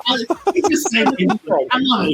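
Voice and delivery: delighted and high; excited. Real, not acted. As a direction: gush with delight. Delighted laughing praise.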